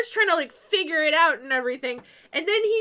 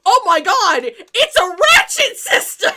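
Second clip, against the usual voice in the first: much louder, higher, laughing exclamation; mock amazement; 4 semitones higher, 9 dB louder than usual. The guys reacting to Dave's discovery, mock amazement. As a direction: marvel at it with mock awe.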